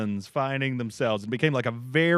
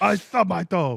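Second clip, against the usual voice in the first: furious yell, high, hoarse and rough; 6 semitones higher, 3 dB louder than usual. Recalling when he stubs his toe, imitating his yell. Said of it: "he stubs his toe and yells".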